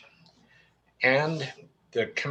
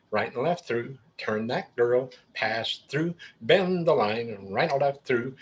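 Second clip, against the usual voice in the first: square dance call. Shown as a demonstration. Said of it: "But if you say right and left through".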